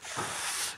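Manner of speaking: soft, put-on sigh of suffering; exaggeratedly worn-out sigh; weary sigh. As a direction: let out a feeble mock sigh. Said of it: "you just about crawl into a room".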